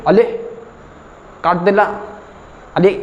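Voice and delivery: light mock lisp of a sleepy customer; lisping friend. Lisping customer yelps at the barber after the cut, mildly. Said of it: "तोतला मित्र था".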